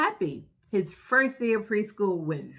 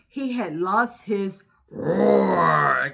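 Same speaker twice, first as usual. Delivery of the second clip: mock crying lion; 6 dB louder, much slower than usual.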